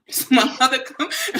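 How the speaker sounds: laughing through the words. Real, not acted. Retelling how mom came in, laughing. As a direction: chuckle as you start the line.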